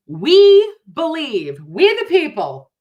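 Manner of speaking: slow, loud, high proclaiming shout; screaming. Real, not acted. Mocking the jury's claim to her viewers, screamed slowly. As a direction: bellow it like a rally cry. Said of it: "Am I screaming at you?".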